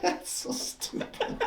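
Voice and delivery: whispering. Real, not acted. Whispered aside.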